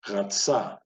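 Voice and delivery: "Ratsa" with the R from the back of the throat. Shown as a demonstration. Teacher modelling a word to repeat, back-throat R. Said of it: "from the back of the throat".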